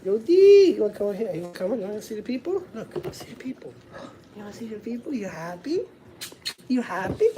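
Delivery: gentle dad voice calling his son over; tender to his son. Real, not acted. Talking to his son off-mic.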